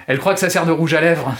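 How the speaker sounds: mild gleeful jab; a hint of gloating; gleeful cry. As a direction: toss it out with secret glee. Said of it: "s'écria soudain avec un air de joie secrète".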